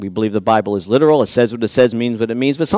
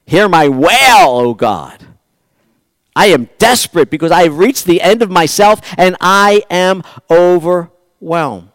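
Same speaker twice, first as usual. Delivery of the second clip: wailing plea; 4 semitones higher, 4 dB louder than usual. Acted. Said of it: "I'm wailing".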